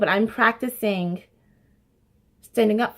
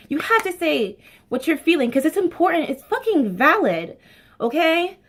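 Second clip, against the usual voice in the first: impassioned; 8 semitones higher than usual. Real, not acted. Passionate about voicing feelings.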